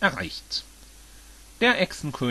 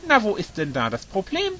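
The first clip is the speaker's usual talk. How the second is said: lightly teasing, higher-pitched question; smiling; 7 semitones higher than usual. A narrator's reading. Yoshi teases Bowser about his problem, smiling. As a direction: ask with an easy smile. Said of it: "lächelte Yoshi".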